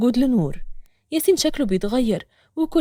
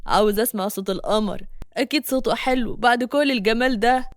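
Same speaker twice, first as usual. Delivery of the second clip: flirty street catcall. Acted. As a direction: chat her up crudely. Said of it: "بيغازل فيها بطريقة بلدي". (معاكسة بلدي بصوت واطي)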